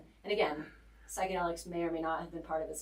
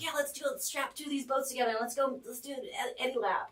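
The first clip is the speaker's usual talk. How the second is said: higher, rushed imitation of gung-ho guys; mock eagerness; 6 semitones higher than usual. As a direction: egg them on in an imitated excited voice. Guys eagerly pushing the risky plan.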